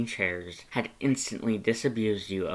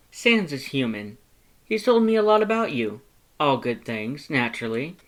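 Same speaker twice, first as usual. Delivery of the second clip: high, fast, louder friendly skeleton; polite Papyrus; 4 semitones higher, 5 dB louder than usual. Acted. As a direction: rattle it off up high, then settle. Papyrus voiced in story.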